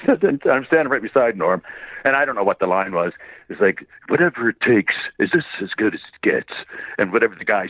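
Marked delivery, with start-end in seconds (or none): 4.1-6.5 a hint of a movie-star impersonation; Jack Nicholson. Voice actor retelling his audition read beside a castmate, light Jack Nicholson impression. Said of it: "it was a perfect Jack".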